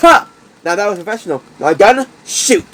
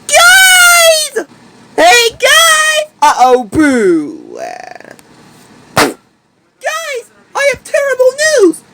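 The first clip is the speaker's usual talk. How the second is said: urgent alarm; 12 semitones higher, slower than usual. Acted. Runs in with bad news.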